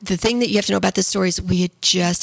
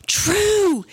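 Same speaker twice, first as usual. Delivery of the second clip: retold alarmed call; 11 semitones higher than usual. Wife retells calling out to son.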